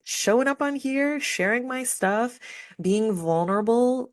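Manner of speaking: real emotion rising as she names being vulnerable; close to tears. Real, not acted. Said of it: "I'm gonna cry just talking about it".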